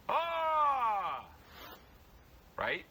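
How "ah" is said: high, loud, open yell; long unforced scream; loose demo scream. Shown as a demonstration. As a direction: let the scream fall out freely. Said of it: "you have to actually be loose".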